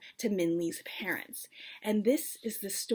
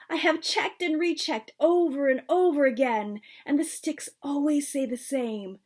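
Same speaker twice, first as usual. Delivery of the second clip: louder, higher insistent grandmother; insisting; 4 semitones higher, 5 dB louder than usual. A narrator's reading. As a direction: stress every recheck, adamant. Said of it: "my grandmother insisted".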